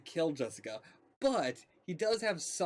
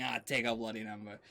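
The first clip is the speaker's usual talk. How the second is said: lightly put-on Scottish accent; a hint of Scottish in a low voice; 4 semitones lower than usual. Imagining Kilgrave's retort to someone, in a light Scottish accent. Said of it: "gave a Scottish accent".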